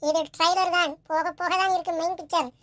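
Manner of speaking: loud, punchy intro to viewers; channel intro. Acted. Host greets viewers before the main picture, loud channel intro. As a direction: hype up the trailer loudly.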